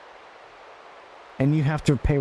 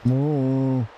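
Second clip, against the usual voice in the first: deer impression. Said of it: "impression of a deer".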